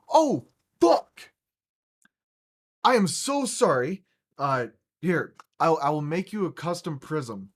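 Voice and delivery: high, loud imitated shock turning into frantic sorry; panicked apology. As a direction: play the vendor freaking out and grovelling. Vendor realises, panics, apologises.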